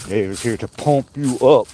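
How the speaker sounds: lightly put-on bodybuilder pep-talk voice; playful mock strongman delivery; Arnold impersonation. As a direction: do a light, amateur action-hero accent. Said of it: "my best Arnold impress-, impersonation".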